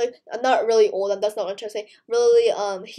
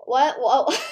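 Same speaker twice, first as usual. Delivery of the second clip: laughing; 4 dB louder than usual. Real, not acted. Laughing at own squeak.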